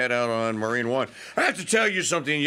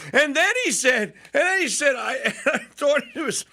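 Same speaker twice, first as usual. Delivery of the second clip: can't stop laughing; host laughing as he retells it; laughing while talking; 10 semitones higher than usual. Real, not acted. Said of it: "Maggie could hear me laughing".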